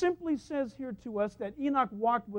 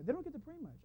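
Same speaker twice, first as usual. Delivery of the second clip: put-on soft, higher little-boy voice; cute child aside; 4 semitones higher, 11 dB quieter, faster than usual. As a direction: imitate a small boy confiding, pitched up. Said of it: "It was so cute how he said it".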